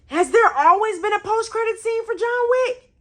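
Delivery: very high, incredulous squeal; pissed disbelief. Real, not acted. Fan learning of a missed scene, pissed disbelief. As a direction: question it in high-pitched outrage. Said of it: "Oh, I'm pissed".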